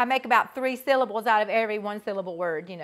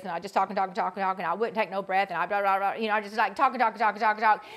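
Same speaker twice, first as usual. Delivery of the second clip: mock low rambling; 3 semitones lower, much faster than usual. Shown as a demonstration. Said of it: "I would talk really low like this".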